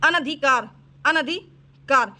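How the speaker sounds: अनधिकार broken as ana-dhi-kaar, slowly; slow, separated अनधिकार; sounded out. Shown as a demonstration. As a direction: dictate अनधिकार part by part. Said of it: "इसकी शुद्ध वर्तनी जो है".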